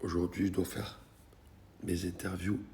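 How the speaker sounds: sore throat whisper; barely able to talk, voice nearly gone; losing voice. Real, not acted. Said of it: "Je peux pas parler".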